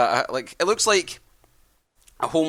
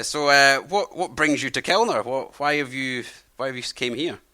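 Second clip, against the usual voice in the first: put-on friendly old man; 2 semitones higher than usual. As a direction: play a chatty old host welcoming travellers. Old man asks purpose.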